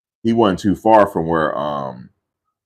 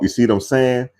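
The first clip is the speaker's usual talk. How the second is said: lightly imitated cousin, a bit higher; cousin's catchphrase; 5 semitones higher than usual. Teller showing how his cousin talks, light imitation. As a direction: toss it out as his verbal tic. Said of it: "He talk just like that".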